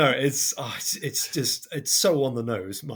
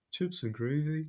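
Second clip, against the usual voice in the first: higher-pitched mock Brummie accent; Birmingham accent; 4 semitones higher, 3 dB quieter than usual. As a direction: put on a poor Birmingham accent. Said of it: "my very poor Birmingham accent".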